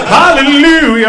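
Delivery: loud, drawn-out hallelujah; joyful shout. Real, not acted. Comic cheering the crowd's laugh with a slow, loud hallelujah. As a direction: call it out slow like in church.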